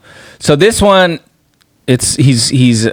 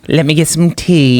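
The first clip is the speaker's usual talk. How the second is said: higher mock-proper English voice; prim English accent; 4 semitones higher than usual. Shown as a demonstration. Friend joining in on tea talk, prim English accent. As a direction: put on dainty refined English. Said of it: "the prim and proper".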